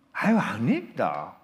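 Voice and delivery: a hint of Korean-Chinese accent; Joseonjok accent. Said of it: "우리 조선족 말투 들으면 금방 알잖아요".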